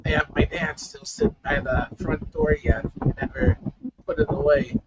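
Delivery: muffled, windy, breaking-up audio; talking into a fan. Real, not acted. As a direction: voice blown through a fan. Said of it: "You almost sound like you're talking into a fan".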